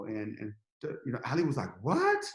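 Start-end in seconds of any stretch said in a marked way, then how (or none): 1.9-2.2 high-pitched mock-surprised "what?"; retold shock. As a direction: imitate a stunned business partner. Retold shocked reaction to news.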